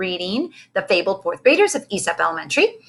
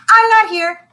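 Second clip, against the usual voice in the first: cheeky high giggly voice, louder; snickering; 12 semitones higher, 8 dB louder than usual. A narrator's reading. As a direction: snicker it out like a smart-aleck kid. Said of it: "she snickered".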